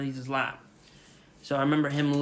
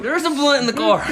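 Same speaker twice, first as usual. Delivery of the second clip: higher, louder, laughing alarm; laughing panic; 11 semitones higher, 8 dB louder than usual. Retold or imitated. Victim panics about the blunt, laughing. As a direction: blurt it through laughter. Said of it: "thinking in my head".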